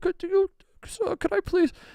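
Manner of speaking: very high, timid, bashful, small pleading voice. Acting out Paige asking to slip out, imitating Paige's bashful pleading. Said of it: "Paige was like so bashful".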